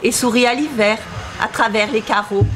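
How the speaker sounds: measured, lightly lyrical verse reading; poetry read aloud with even phrasing; poem recitation. Acted. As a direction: recite line by line, pausing after each verse.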